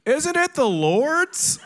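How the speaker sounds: very high, drawn-out mock yell; heckling yell. Friend in the back taunting the pastor, high heckling yell. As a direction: call it out loudly from the back.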